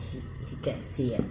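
hushed aside; whispering. Real, not acted. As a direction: keep it secret, whisper it. Hiding the prank from him.

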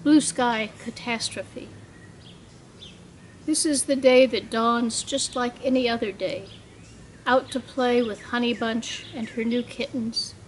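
measured poetry recital, phrase by phrase; poem reading. Acted. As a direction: read it as a poem, pausing at line breaks. Poet reads own poem aloud.

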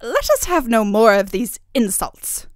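loud, slow, commanding; indignant cry. A narrator's reading. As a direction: cut off the insults with authority. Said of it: "cried the fairy".

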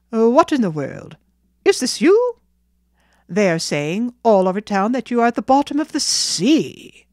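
loud, amazed townsman; astonished. Acted. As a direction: exclaim in disbelief at the boy's appearance. Townsman meets boy believed drowned.

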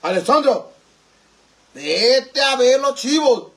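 high, slow, drawn-out cartoonish call; Dora. Streamer sending Alessandro to see the goats, put-on high call. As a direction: stretch the words out in a put-on voice. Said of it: "La voz de Dora te sale mejor".

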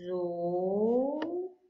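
broken into separate syllables with long gaps. Shown as a demonstration. Teacher sounding out tesoura for young pupils, syllable by syllable. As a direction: split the word into its syllables for the kids. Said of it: "teacher splitting word into syllables".

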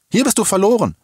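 high, loud insistence; urgent warning. A narrator's reading. Woman urges the girl to leave. (laut und eindringlich gewarnt)

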